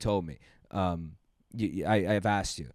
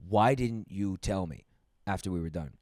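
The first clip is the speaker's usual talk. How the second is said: hushed retold question; 3 semitones lower, 6 dB quieter than usual. Voices the woman after sex.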